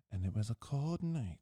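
mock storyteller. Mock dramatic scene setting of story.

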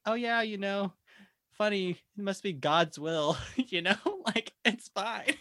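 breezy, laughing through it. Real, not acted. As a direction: shrug it off with a laugh. Trauma joke played off breezily.

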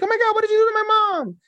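put-on very high, fast frantic girl; very high fast frantic little girl; panicked girl. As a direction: shriek it out fast. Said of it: "And she's like".

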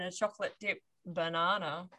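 insinuating. Shown as a demonstration. Host hinting at a second kind of banana, insinuating "banana". Joke contrast of two bananas.

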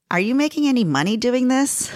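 ordinary talk, nothing marked

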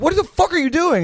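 high, loud, incredulous outburst; imitated outraged disbelief. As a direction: mimic a friend's shocked outrage. Friend reacts to being pissed on.

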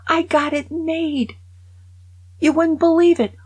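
high, loud bragging ghost; gleeful Raj. Retold or imitated. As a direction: brag from the afterlife with delight. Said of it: "Raj goes".

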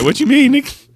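voicing pissed dog. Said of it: "He said".

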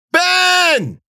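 very high, loud call across the field; shout for help. A narrator's reading. Cece calling for Ben from inside the brambles. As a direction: call out desperately.

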